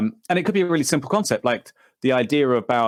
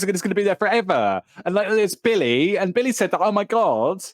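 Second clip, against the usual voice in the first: mocking whiny voice; 6 semitones higher than usual. Mocking friend's VR chat enthusiasm.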